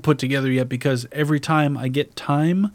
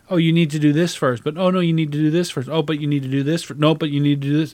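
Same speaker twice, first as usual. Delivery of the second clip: quick, circling self-correction; nagging inner voice; 2 semitones higher, faster than usual. Retold or imitated. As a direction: rattle through the thoughts, each cutting in on the last. Acts circle of nagging thoughts.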